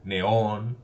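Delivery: "neón" with the final ÓN stressed; teacher's example word neÓN, stressed at the end; stress on tonic syllable. Shown as a demonstration. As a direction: lean on the Ó in "neón". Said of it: "sobre la vocal de la sílaba tónica".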